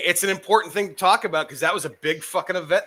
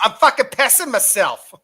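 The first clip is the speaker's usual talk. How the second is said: put-on Boston accent; 4 semitones higher than usual. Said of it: "I got the Boston accent in my head".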